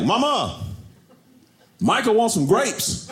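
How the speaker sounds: put-on high, slow sweet child voice; little girl. Daughter telling mom what her brother wants, childlike. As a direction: imitate a small daughter translating. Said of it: "my daughter's like".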